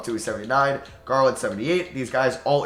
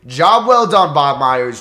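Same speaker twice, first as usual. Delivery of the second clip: sarcastic; 10 dB louder, much slower than usual. Real, not acted. Mocking a bad trade.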